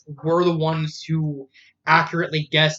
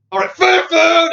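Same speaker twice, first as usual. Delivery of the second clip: much higher, louder cheer for free food; mock cheer; 11 semitones higher, 7 dB louder than usual. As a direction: play it like a giddy kid spotting snacks. Retold character cheering.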